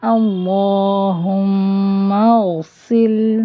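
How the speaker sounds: اللہم اغسل with a sharp hissing س; اغسل with a whistling س; sharp whistling seen. Shown as a demonstration. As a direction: hiss the س in اغسل. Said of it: "تیز سیٹی کی آواز ہوتی ہے".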